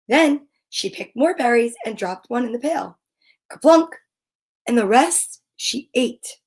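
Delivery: measured picture-book narration with pauses; reading to children. A narrator's reading. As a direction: read it aloud to little kids, phrase by phrase.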